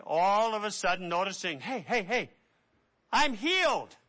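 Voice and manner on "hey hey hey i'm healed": excited cry. Acted. Preacher acts out healed leper.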